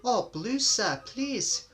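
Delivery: high and loud, delighted; eager twins. A narrator's reading. Twins choosing their paint colour, high and eager. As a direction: blurt it out gladly.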